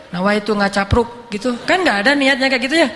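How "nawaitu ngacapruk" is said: mock solemn recital. Mock intention before idle chatter.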